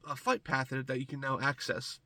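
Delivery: stuffy nose from a cold; congested. Real, not acted. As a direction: talk through a blocked nose. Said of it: "I sound kind of congested".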